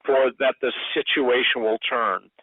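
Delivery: earnest intercessory prayer; praying. Real, not acted. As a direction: pray aloud fervently for him.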